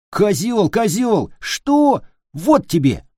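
high, loud exchange of insults; heated squabble. Acted. Boys trade insults before swinging pillows, heated. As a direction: yelp taunts mid pillow fight. Boys' quarrel becomes pillow fight.

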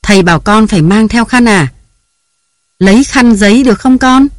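high, loud harried mother; yelling at the kids while they get ready for school; flustered mother's shouting; scolding shout. A narrator's reading. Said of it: "với tiếng la hét của nàng".

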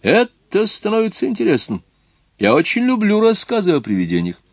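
высокий голос, увлечённо; голос англичанина, выше; заинтересованный сэр Джон. Acted. (сэр Джон увлечён рассказами, высоким голосом)

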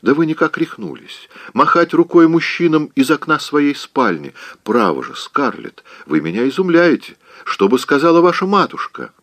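high, fluttery scolding aunt; a flustered old aunt clucking in disbelief; fussy Aunt Pitty. Acted. Aunt scolds Scarlett for waving from her window, fluttery high.

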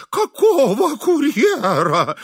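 high, slow horrified question. A narrator's reading. Frightened host to the stern visitor, high and horrified. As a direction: gasp it out in horror. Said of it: "ужаснулся Изнурёнков".

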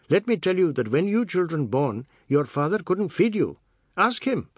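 high, singsong, emphatic grievance; aggrieved Seth, haranguing. A narrator's reading. Seth complaining to the children about their father, aggrieved. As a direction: air your grievance with swooping emphasis.

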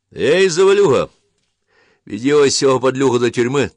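loud, high barked command to a soldier; officer shouting orders down the line; shouted order. A narrator's reading. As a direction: call the soldier over and give the order.

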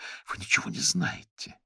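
furious tirade defending him; angry. Acted. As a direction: tell him off in anger. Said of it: "Её глаза полыхнули гневом".

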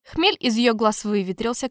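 ordinary delivery, nothing marked

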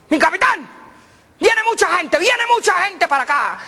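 high, loud urgent report; alarmed lookout. Acted. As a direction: warn the captain in a panic. Soldier alarm from tree.

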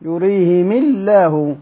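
يريهم الله with "i" on the mim and a light lam; stretched recitation, thin L in الله after يريهم; Abu Amr's kasra reading. Shown as a demonstration. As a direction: slowly recite يريهم الله as "yurihimi-llah". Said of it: "بيقرأها كده".

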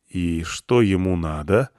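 slow, careful ask; cautious question. Acted. Narrator asking Irina about the crowd, slow and cautious. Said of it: "спросил я осторожно".

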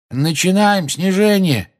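высокий протяжный оклик; прокричи команду издалека, медленно и высоко; громкое объявление. A narrator's reading. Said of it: "прозвучал голос Люпина". (протяжно кричит)

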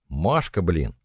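a touch of a sharp rebuke; mild scolding. Acted. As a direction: snap at her lightly. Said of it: "прикрикнула Вита". (лёгкий окрик)

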